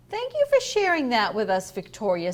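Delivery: a teacher cutting a pupil short; brisk dismissive thanks; curt teacher. Acted.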